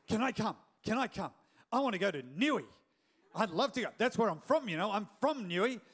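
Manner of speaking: eager yobbo Australian accent, lightly put on. Friend begging to come to his hometown, yobbo Australian. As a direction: imitate a keen yobbo Aussie begging along. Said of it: "really yobbo Australian".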